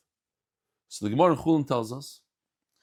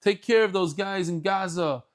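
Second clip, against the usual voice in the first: higher, louder, excited welcome; host greets Eliyahu Hanavi, eager and a bit louder; eager greeting; 5 semitones higher, 4 dB louder than usual. Retold or imitated. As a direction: greet the guest all worked up. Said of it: "He says".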